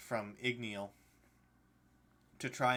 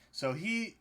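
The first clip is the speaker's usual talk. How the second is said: breaking on a hiccup; talking through the hiccups; 7 semitones higher, 4 dB louder than usual. Real, not acted. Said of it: "I got the hiccups".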